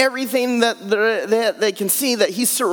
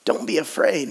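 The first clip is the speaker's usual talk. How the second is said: calm reassurance; 3 semitones lower than usual. Shown as a demonstration. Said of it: "repeated softly".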